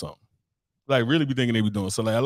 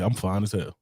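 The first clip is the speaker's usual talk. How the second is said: cocky dude; 4 semitones lower, 3 dB quieter than usual. Retold or imitated. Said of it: "Dudes just be out there, like, saying".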